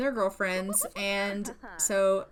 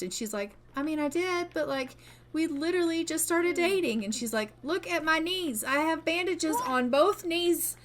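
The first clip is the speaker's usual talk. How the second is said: high whine; 6 semitones higher than usual. Pretend. Sim lamenting her fighting skill.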